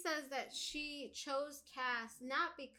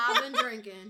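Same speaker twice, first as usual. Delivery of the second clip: laughing; 10 dB louder than usual. Real, not acted. Laughing repeat.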